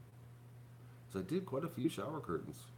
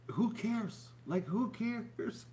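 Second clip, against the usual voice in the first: dismissive; 13 semitones higher, much slower than usual. Real, not acted. Mocking CNN's focus, repeated.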